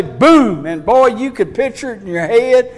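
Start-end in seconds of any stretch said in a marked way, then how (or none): 0.0-0.7 a sportscaster's punchy "Boom!" cut short; John Madden's boom. Retold or imitated. Preacher imitating the announcer's tackle call, punchy boom. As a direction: bark the boom like a football announcer. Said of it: "And he'd say".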